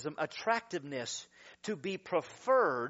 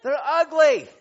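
loud punchline; 9 semitones higher, 14 dB louder than usual. Acted. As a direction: punch ugly much louder and higher. Preacher repeats for laughs.

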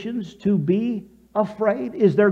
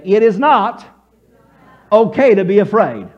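firm declaration; 6 dB louder than usual. Shown as a demonstration. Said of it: "Say that with me".

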